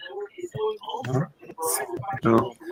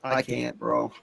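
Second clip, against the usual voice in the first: much lower and quiet, spent; defeated; 10 semitones lower, 12 dB quieter than usual. Real, not acted. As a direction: barely get it out, crushed. Defeated after the drop.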